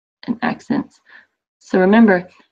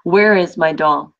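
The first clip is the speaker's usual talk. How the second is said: slow question with WHERE leaned on; question example; 4 dB louder, slower than usual. Shown as a demonstration. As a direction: ask "Where is my doll?" slowly, pushing "Where".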